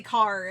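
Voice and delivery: "car" with the final R fully sounded; enunciated R. Shown as a demonstration. Streamer showing exactly how partner says car, enunciated R. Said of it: "enunciated R at the end".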